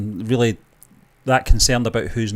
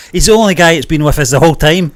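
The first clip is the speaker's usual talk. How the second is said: laughing; 5 semitones higher, 8 dB louder than usual. Real, not acted. Laughing while recounting funny moment.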